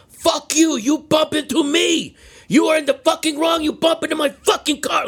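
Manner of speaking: high, furious mock shouting; retold screaming. Driver screaming out the window at the moped rider, acted fury. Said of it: "screams out the window at him".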